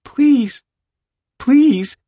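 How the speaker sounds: very high, pained plea; agonised begging. A narrator's reading. Jude begs his pushing friend, in agony. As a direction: beg him to stop. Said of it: "Jude is in agony".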